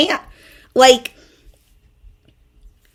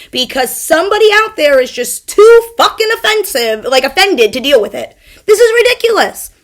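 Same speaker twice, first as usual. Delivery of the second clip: angry; 4 semitones higher, 5 dB louder than usual. Real, not acted. Angry rant peaking.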